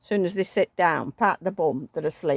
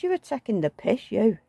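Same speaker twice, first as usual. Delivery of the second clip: higher accusing jab; mock accusing; 4 semitones higher than usual. Wife accusing husband of taking the piss, higher. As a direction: accuse him, pitched up.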